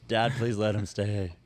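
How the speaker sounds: slow mock plea to dad; pleading. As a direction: beg slowly and sweetly.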